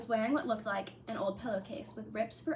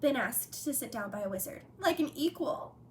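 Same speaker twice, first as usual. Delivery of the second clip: higher, louder elf voice; house elf voice; 4 semitones higher, 7 dB louder than usual. A narrator's reading. Dobby voiced throughout.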